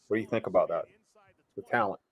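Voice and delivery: ventriloquist talk, lips still; talking without moving lips. Shown as a demonstration. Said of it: "how I can talk without moving my lips".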